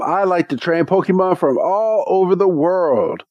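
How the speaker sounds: a hint of a grand knight; proud trainer. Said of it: "and he's like".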